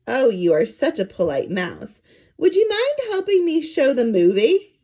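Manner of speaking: syrupy attendant asking a favour, rising high; honeyed request from a scheming stewardess; lightly voiced, sugary lady mouse; sweet flight attendant. A narrator's reading.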